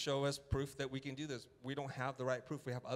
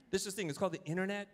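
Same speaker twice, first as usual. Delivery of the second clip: this is the thing, higher and louder; forceful, louder; 6 semitones higher, 4 dB louder, faster than usual. Shown as a demonstration. The speech he only thought to the faculty, forceful. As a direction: say it like you're fed up. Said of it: "I thought it like this".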